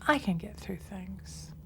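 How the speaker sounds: slow and certain; like you mean it. Shown as a demonstration. Teacher models a sincere self-encouragement. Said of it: "Say it to yourself like you mean it".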